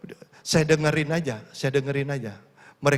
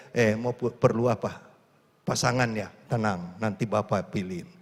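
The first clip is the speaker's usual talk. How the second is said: reassuring fatherly God; 4 semitones lower than usual. Retold or imitated. God voiced reassuring youth.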